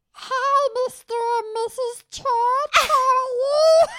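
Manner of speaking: very high squeaky helium voice. Retold or imitated. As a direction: squeak it out like you inhaled helium. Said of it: "in this high-pitched helium voice".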